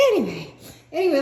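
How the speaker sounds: quick, loud, still giggling; rushing on through laughter; laughing, collecting herself. Real, not acted. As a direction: pull herself together fast.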